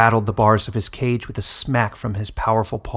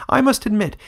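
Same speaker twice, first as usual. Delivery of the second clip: mocking villain; 11 semitones higher, 6 dB louder than usual. Villain mocks the wolf.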